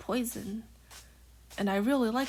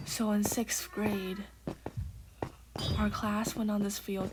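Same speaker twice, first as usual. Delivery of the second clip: whispering. Real, not acted. Whispered gameplay chat throughout.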